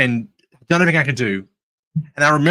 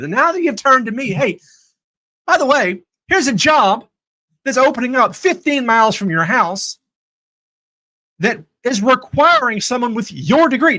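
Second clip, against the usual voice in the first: playful God voice; 8 semitones higher than usual. Retold or imitated. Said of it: "but he's like".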